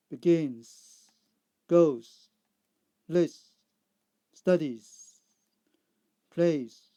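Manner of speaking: loud, separate words, each with a long final "z"; Z endings. Shown as a demonstration. Teacher repeating answers for learners, loud drawn-out Z endings. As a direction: read each word alone, drawing out the ending. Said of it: "C sound".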